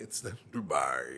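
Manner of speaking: voice drops very low on the final word "Dubai". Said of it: "you have to hit the low one".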